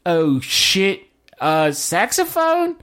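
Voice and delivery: put-on a light, high Cockney accent in a panic; mock Cockney panic. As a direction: fret like a Cockney bloke who needs talent. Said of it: "Nothing but Cockney accents".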